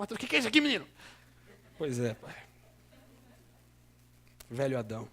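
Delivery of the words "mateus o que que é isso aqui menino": higher, louder reproachful father; stern father scolding. Retold or imitated. Father confronting son over old YouTube video, raised stern scolding. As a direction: scold your son like a shocked dad. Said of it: "Ele falou".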